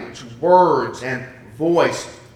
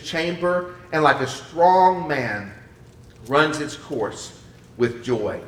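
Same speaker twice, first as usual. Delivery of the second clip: measured verse reading, slowing toward the end; scripture reading. Acted. Preacher reads on about the sun's course, measured scripture reading. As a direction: declaim it in phrases with pauses.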